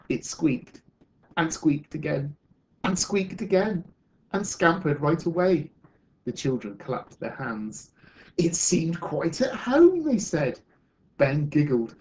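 measured, expressive picture-book reading; storyteller reading to children; story narration. Acted. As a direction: read a story aloud to a class, with lift on the key words.

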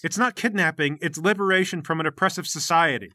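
mildly indignant, pushing back; insistent rebuttal. Acted. Gang leader defending his liberation movement, insistent rebuttal. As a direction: correct them firmly, a touch heated.

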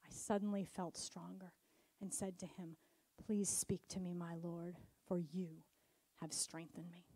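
reverent reading, fading to near whisper at the weakest lines; scripture reading. Acted. Reads Daniel scripture aloud.

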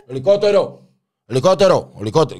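high, loud warning yell; high-pitched acted street holler; lookout's alarm cry. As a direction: shout the alarm across the street.

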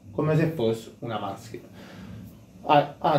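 cloth over the mouth; slightly muffled through fabric; speaking through a bandana. Real, not acted. Seen 1: Red bandana tied over mouth and nose throughout the labelled words.

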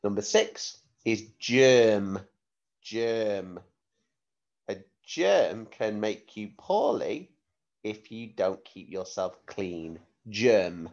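clear, careful word-sentence-word dictation. Shown as a demonstration. Spelling test dictation.

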